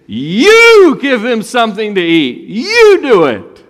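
slow, loud, high commanding voice; commanding Jesus. Retold or imitated. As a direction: proclaim it as Jesus' command, drawn out.

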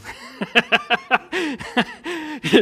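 high burst of disbelieving laughter; real laugh. Real, not acted. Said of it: "she really did".

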